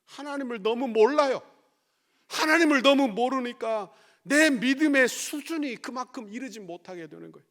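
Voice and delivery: loud, high, urgent sermon voice; fiery preaching. Acted. Pastor rebuking the congregation, fiery preaching. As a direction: drive the point home to the congregation.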